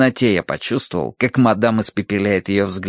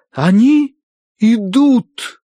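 high, loud, portentous announcement; провозглашение медиума; 13 semitones higher, 6 dB louder, much slower than usual. A narrator's reading. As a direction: proclaim the spirits' arrival. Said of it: "провозгласила мадам Аритоцкая". (громко, высоко, провозглашая)

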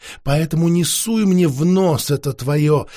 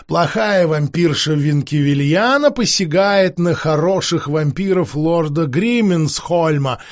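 mocking. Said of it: "насмешливо прокомментировала Алисанда".

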